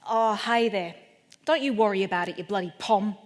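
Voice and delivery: put-on easygoing comic Australian accent. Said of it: "in a really clear-cut Australian accent".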